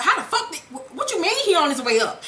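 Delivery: high-pitched acted disbelief; startled. Tasha hearing he is coming up, startled.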